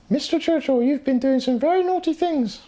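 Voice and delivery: high, put-on stern officer voice; mock police officer. Streamer imitates police scolding him, high mock voice. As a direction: play a pompous policeman scolding.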